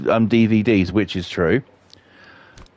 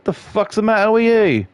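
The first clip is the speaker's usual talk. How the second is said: irritated demand; 8 semitones higher than usual. Retold or imitated. Acted morning quarrel with wife.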